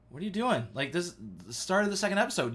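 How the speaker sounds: mock-baffled buddy objecting; baffled protest. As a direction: protest in disbelief, pitch lifted. Friend protesting as host walks out.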